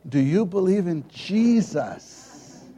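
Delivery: high, loud imitated pleading; mother imitated, high and loud; insistent mother. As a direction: press the real question. Mother pressing further.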